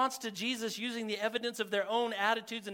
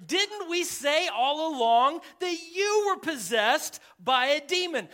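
acted accusation, raised in pitch; upset retort; 5 semitones higher, 4 dB louder than usual. Angry crowd retorting to Jesus, upset and accusing. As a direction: throw the charge at him indignantly. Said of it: "They're talking to Jesus like this".

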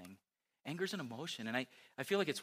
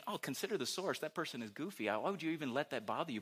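inner self-talk; 4 semitones higher than usual. Retold or imitated. Inner voice scolding herself.

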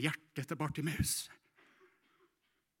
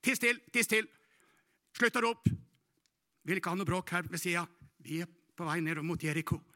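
hushing scold; 4 semitones higher, 6 dB louder than usual. Acted. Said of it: "De sa".

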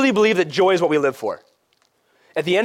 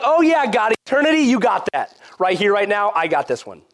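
higher, offhand bargaining voice; breezy mock assent; 3 semitones higher than usual. We tell God we got this one, breezy mock confidence.

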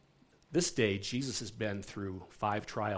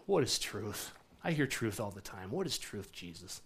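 dismissive, fading to a scoffing murmur; ticked-off Pilate sneering at Jesus; cynical; 3 dB quieter than usual. Shown as a demonstration. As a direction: brush the question off, unimpressed. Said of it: "a little cynical".

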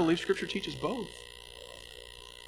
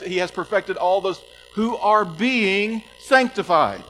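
fervent preaching; 6 semitones higher, 7 dB louder than usual. Real, not acted. Preacher reading Hebrews to the church, loud and fervent. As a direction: proclaim the verse with rising passion. Preaching the verse at full force.

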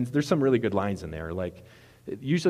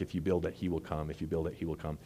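ghostly voice; 4 semitones lower, 5 dB quieter than usual. Retold or imitated. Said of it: "this voice starts coming".

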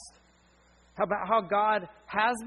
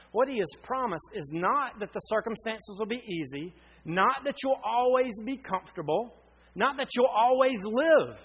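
building preaching; 4 semitones higher, 4 dB louder than usual. Acted.

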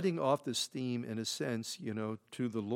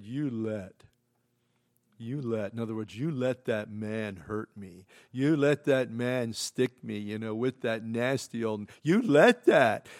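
put-on hurt little boy; 2 semitones lower, 6 dB louder than usual. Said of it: "he looked at Margie and he said".

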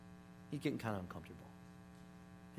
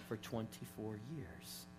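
hushed, heartfelt; 4 semitones lower, 10 dB quieter than usual. Retold or imitated. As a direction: let each phrase land gently, with pauses. Retelling nurse's moving confession.

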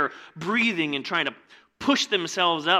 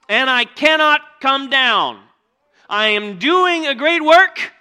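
loud, high, driving sermon voice; preaching at full force; 8 semitones higher, 11 dB louder than usual. Acted. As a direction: preach it out to the whole room. Preacher quoting Nehemiah.

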